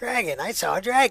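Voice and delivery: put-on old woman voice, high and loud. Commenting on a game fight, joking: old woman voice. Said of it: "I've got the old woman voice down".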